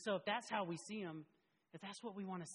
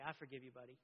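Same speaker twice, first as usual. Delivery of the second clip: gentle father; 4 semitones lower, 6 dB quieter, faster than usual. Retold or imitated. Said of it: "I go up to Lincoln and say".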